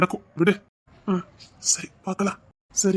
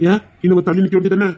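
louder repeat; 4 dB louder, faster than usual. Shown as a demonstration. Husband repeats it after she asks what, louder. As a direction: say it again louder so she hears. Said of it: "என்ன?".

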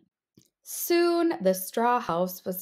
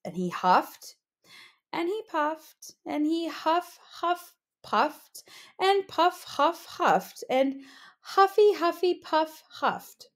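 frantic huffing; 6 semitones higher than usual. A narrator's reading. Narrator acts exhausted huffing.

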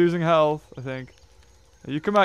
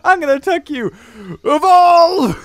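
imitating enemy; 8 semitones higher, 6 dB louder than usual. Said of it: "as soon as he's like".

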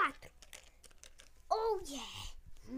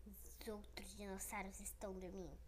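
whisper; 6 semitones lower, 10 dB quieter than usual. Pretend. Whisper while others sleep.

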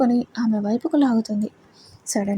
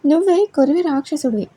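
raised, indignant retort, pitch up; said loudly; 5 semitones higher, 3 dB louder than usual. Acted. Wife hitting back at husband's teasing, loud. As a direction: fire the insult right back at him. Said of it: "అని గట్టిగా అంది షెర్యు".

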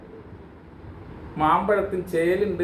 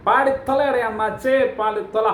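higher, pushy call to get on with it; impatient urging; 5 semitones higher than usual. Real, not acted. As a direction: hurry the singer along, exasperated.

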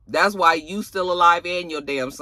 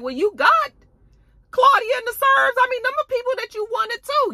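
imitating the agents; 4 dB louder than usual. Retelling the agents' excuse.

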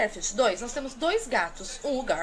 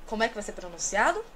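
normal talking voice

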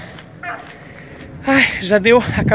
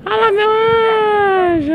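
high squealing call to her love; excited squeal; 13 semitones higher, faster than usual. Real, not acted. Wife squeals at husband to look. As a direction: pitch shoots up as she points it out. Spots something, calls to husband.

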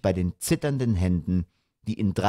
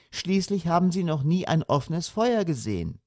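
high, gently pleading mother; mild; 8 semitones higher than usual. A narrator's reading. Mother excusing the children to father, mild. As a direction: indulgent explanation. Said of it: "sagte die Mutter milde".

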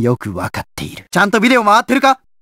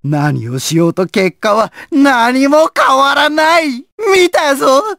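gloating taunt; 3 semitones higher than usual. Acted. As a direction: build up into excited gloating. Villain taunts a desperate victim. (高ぶっていく嘲り)

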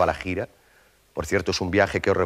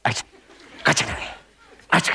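mock jungle language; slower than usual. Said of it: "te empezaba".

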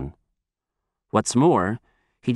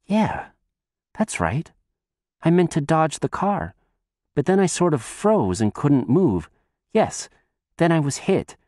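slightly higher, youthful storybook character voice; lightly voiced Shun; 4 semitones higher than usual. Shun tells the old man about the car, lightly voiced recollection. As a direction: lightly play the boy piecing a memory together. Dead boy recalls his fatal accident.

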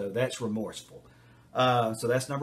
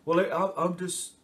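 mock whiny kid; 6 semitones higher than usual. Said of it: "there's gonna be tears".

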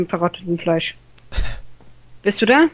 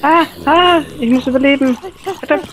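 being chased; 5 semitones higher, 3 dB louder than usual. Real, not acted. Under attack in game.

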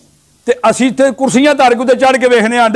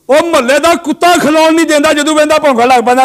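higher-pitched sermon delivery; raised preaching; 6 semitones higher than usual. Real, not acted. Preacher chides listeners over the neighbourhood dog, raised preaching.

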